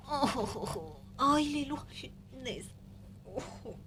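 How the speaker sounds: strained groans under a heavy dog; aching legs, pained little groans; groaning with cramps. Real, not acted. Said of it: "Oh, j'ai des crampes".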